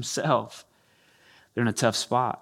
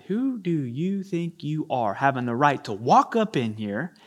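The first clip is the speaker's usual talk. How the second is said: affronted leaders. Retold or imitated. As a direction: build from disbelief to outrage. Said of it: "another way we ask it".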